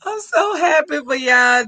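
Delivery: crying happy for them, real; real tearful joy, almost breaking; tearing up with joy. Real, not acted. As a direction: voice choked with happy tears. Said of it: "start tearing up over here".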